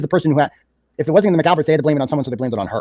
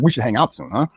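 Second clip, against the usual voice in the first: lower, veiled mock threat on the repeat; mildly threatening; 3 semitones lower than usual. Host mimicking a text that sounds threatening, mildly menacing. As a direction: echo it as a faintly menacing invitation. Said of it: "sounds a little threatening".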